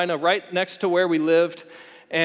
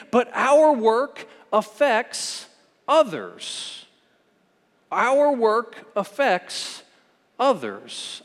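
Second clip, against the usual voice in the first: raised, measured sermon delivery; emphatic preaching; 5 semitones higher than usual. Real, not acted. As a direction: drive the point home with weighty pauses. Preacher builds his main point.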